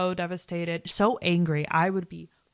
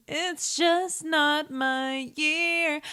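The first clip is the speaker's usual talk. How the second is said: mock sad sigh; 8 semitones higher, much slower than usual. Rhiannon's sad line, voiced.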